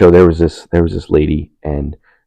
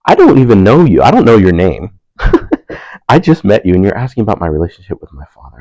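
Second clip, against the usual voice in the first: mock indignant; 3 semitones higher, 5 dB louder than usual. Retold indignant inner reply.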